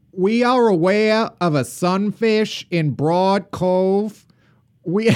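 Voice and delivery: put-on Boston accent, slow and formal. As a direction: read it like an old Boston announcer. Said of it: "I'll try my Boston accent".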